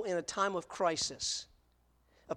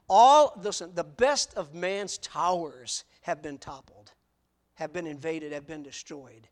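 preaching outburst; 2 semitones lower, 5 dB louder, slower than usual. Acted. Preacher punches point.

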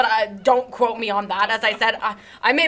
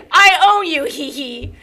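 gloating villain; 3 semitones higher, 5 dB louder than usual. Acted. Villain gloating over adoption form.

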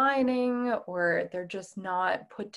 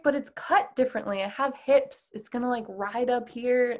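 higher, mildly exasperated objection; retold seething protest; 3 semitones higher than usual. Woman answering companion about men's clothes, retold seething protest. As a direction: argue back, lightly acted frustration. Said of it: "I was just seething".

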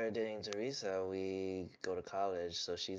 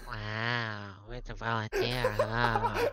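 laughing tease; 7 dB louder, much slower than usual. Real, not acted. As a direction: rib a friend, breaking up laughing at the end. Repeated tease breaking into laughter.

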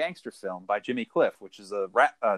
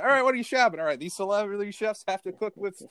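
high, hyped TV host announcing ingredients; mock Guy Fieri host voice; Guy Fieri impression; 7 semitones higher than usual. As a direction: sell the weird ingredients like a game show host. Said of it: "be like".

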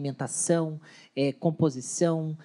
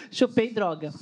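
laughing; 4 semitones higher than usual. Real, not acted. Joking about being wired.

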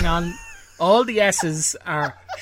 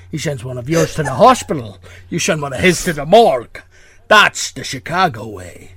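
Sean Connery impression; 3 dB louder than usual. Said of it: "Sean Connery accent".

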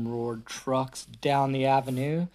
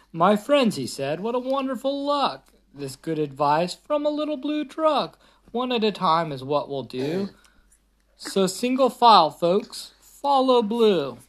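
lightly voiced speechifying mayor, higher; mayor's speech; 4 semitones higher than usual. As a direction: address the crowd grandly. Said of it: "gave a speech the way mayors do".

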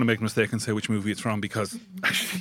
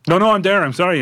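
holding back laughter; 9 semitones higher, 6 dB louder than usual. Real, not acted. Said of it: "I'm trying not to laugh at myself".

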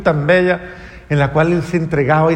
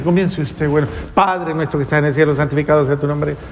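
rushed rote prayer. Retold or imitated. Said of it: "A ver quién termina primero".

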